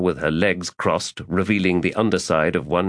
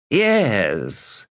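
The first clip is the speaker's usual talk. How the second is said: drawled; 4 semitones higher than usual. Acted. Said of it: "he drawled".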